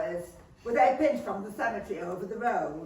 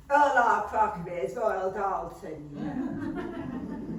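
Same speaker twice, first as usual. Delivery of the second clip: boastful laugh; slower than usual. Acted.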